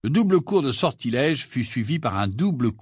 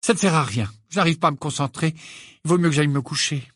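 fast, irritated outburst; 4 semitones higher, faster than usual. Acted. Hermione gives up on her essay, irritated. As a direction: rush it out in annoyance. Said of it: "d'un ton irrité".

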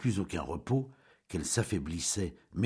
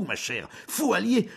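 angry rant; 13 semitones higher, 5 dB louder than usual. Acted. Julien ranting to Jeanne.

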